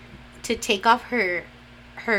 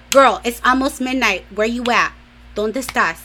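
louder imitation of a mother demanding answers; scolding mom; 4 semitones higher, 6 dB louder than usual. Mom calling her daughter near midnight, mock scolding. Mom phoning about the late hour.

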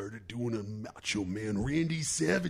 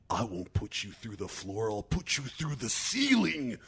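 Macho Man. Retold or imitated. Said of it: "and I was like".

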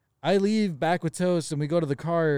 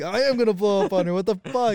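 mildly raised, indignant retelling; retold pissed-off protest; 4 semitones higher than usual. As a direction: replay your annoyance, a bit higher. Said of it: "I was just pissed".

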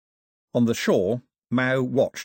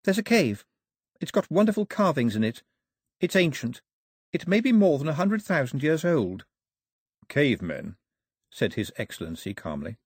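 put-on high, excited young woman; eager Daphne; 6 semitones higher than usual. A narrator's reading. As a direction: share a wonderful discovery.

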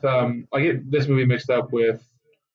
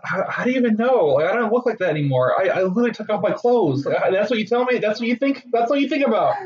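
higher, indignant rant; exasperated actress; 8 semitones higher than usual. Retold or imitated. Actress ranting at fans who only see her child role, high and indignant. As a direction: pitch it up and get indignant. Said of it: "She's like".

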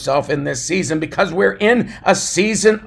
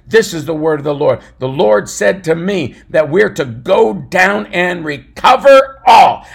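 David's declaration; 6 dB louder than usual. Retold or imitated. David tells his men the Lord's word, rising to a cry. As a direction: proclaim it like a prophet. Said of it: "He says".

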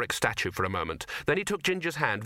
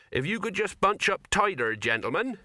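higher, eager cameraman voice; chirpy, coaxing the group together; 7 semitones higher than usual. Acted. Cameraman coaxing wizards to squeeze.

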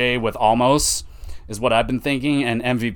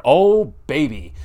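hyped; 4 semitones higher, 4 dB louder, slower than usual. Real, not acted. Hyped for a match.

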